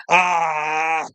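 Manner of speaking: a short sob catching in the throat; choked sob. Real, not acted. Recalling pacing in fear of speaking, choked sob. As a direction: let the voice break on a sob.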